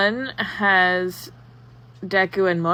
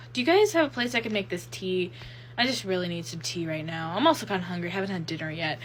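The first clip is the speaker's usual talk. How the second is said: acted weariness, too tired to care; so done; faster than usual. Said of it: "Izuku's just so done".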